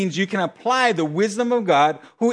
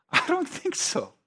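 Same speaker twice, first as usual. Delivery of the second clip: laughing no; 7 semitones higher, 3 dB quieter, slower than usual. Retold or imitated. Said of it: "And I was like".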